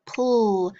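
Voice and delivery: "pull" as the pl blend alone; drawn-out l in "pull", hardly a vowel; isolated initial blend. Shown as a demonstration. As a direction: sound out "pull" as p running into a held l. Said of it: "It's the initial blend".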